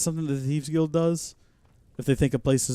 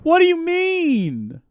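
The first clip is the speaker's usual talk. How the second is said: baffled question; 14 semitones higher, 5 dB louder, much slower than usual. Real, not acted. Baffled by cryptic ghost.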